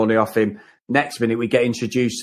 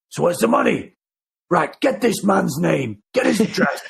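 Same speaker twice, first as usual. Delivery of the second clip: cliche copper voice; 4 semitones higher than usual. Retold or imitated. Retelling the policeman's orders in a lightly voiced cop voice. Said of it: "I'm doing his voice now".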